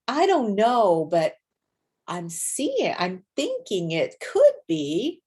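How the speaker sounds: slow, unsure and tentative; hedging disclaimers. Shown as a demonstration. A teacher demonstrating the hesitant voice with disclaimers, tentative. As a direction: hold back, not quite committing. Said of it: "It's all these disclaimers".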